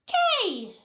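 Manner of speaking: high, loud chant back; crowd shout. A narrator's reading. Fans answering the cheerleaders, loud and high. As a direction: yell it back from the stands. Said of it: "repeated the fans".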